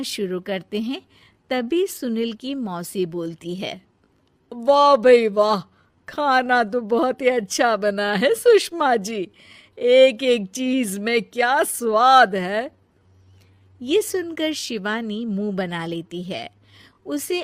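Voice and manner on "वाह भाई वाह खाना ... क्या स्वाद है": lightly voiced aunt. Aunt praises food, different voice.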